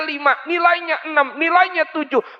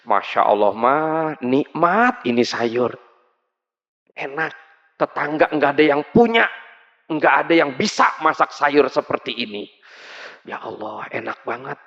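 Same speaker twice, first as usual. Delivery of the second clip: sweet white lie; 9 semitones lower than usual. Acted. Husband lying to please wife.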